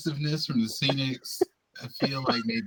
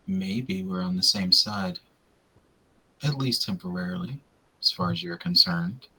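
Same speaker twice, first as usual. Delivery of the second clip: smooth late-night DJ read; late-night radio voice. Acted. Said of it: "Why did you sound like a nighttime radio caster?".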